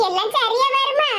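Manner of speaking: doubtful, rising question. Acted. Asking a friend if it will all work out, doubtful. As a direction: ask it unsure it will work. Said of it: "சந்தேகத்தோட கேட்க".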